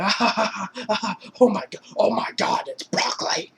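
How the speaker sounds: high cackling laugh into a whisper; imitated laughing fit. Larry cracking up at his buddy, high laughing fit. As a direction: laugh helplessly, then breathe the punchline. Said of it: "starts laughing his ass off".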